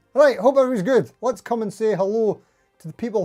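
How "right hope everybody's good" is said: fast, wired greeting; too much caffeine. Real, not acted. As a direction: rush it like you're over-caffeinated. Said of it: "I've had three cups of coffee today".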